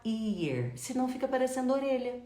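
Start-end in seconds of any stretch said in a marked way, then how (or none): 0.0-0.8 "ear" begun straight on the vowel, no H; dropped H. Shown as a demonstration. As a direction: say "ear" as the faulty "here", H left silent. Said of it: "Você não vai falar".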